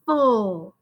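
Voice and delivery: "Full" alone, with a clear opening f; "Full" set apart so the f is heard; isolated second syllable. Shown as a demonstration. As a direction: draw out Full as a separate syllable. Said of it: "first thing you hear in the second syllable".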